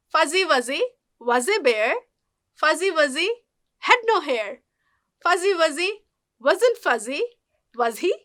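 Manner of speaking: "Fuzzy Wuzzy" with clear buzzing Zs, a phrase at a time; Z sound drill. Shown as a demonstration. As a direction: pause after each "Fuzzy Wuzzy" phrase, voicing every Z. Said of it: "যা সাউন্ডটা".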